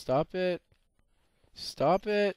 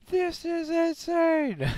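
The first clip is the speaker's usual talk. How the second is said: slow, stretched, high disbelieving cry; slow drawn-out cry of disbelief; drawn-out shocked yell; much slower than usual. Real, not acted. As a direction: stretch every word out in shock. Repeats the shout drawn out.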